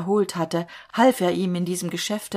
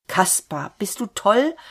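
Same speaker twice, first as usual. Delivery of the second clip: higher, louder crazed shout; frantic shout; 3 semitones higher, 4 dB louder than usual. A narrator's reading. Wilm, axe raised, shouts at Kaspar, frantic. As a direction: yell at him like a madman. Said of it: "schrie Wilm wie ein Wahnsinniger".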